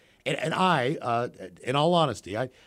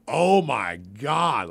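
slow stoned daze; 5 dB louder, much slower than usual. Retold or imitated. Stoned realization, drawn out.

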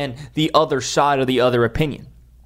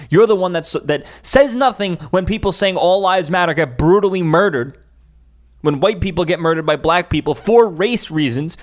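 heated rant; 4 semitones higher than usual. Real, not acted. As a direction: let the anger build and hammer each accusation. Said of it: "sorry for that rant".

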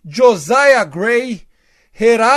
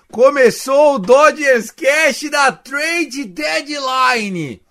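excited; 5 semitones higher, 4 dB louder than usual. Real, not acted. Opening the show, excited.

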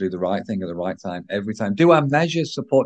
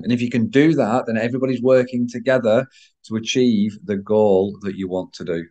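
croaky voice. Real, not acted. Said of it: "croaky voice".

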